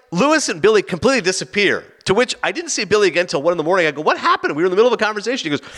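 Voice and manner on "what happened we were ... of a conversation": high-pitched, baffled protest; incredulous complaint. Retold or imitated. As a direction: demand an explanation from a friend. Retold confronting of Billy over disappearing.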